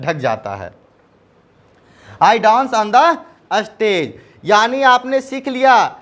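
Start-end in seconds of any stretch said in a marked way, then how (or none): 2.2-4.1 very slow, word by word; slow teaching model. Shown as a demonstration. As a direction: spell it out for learners. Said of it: "teacher models sentence slowly". (धीरे-धीरे, हर शब्द अलग)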